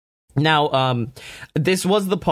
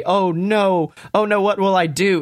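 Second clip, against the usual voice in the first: mock panic; 5 semitones higher than usual. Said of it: "It wasn't a".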